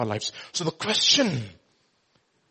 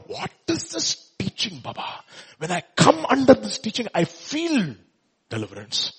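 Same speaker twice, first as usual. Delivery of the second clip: amazed crowd; 5 semitones higher than usual. Retold or imitated. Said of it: "amazed and questioned themselves".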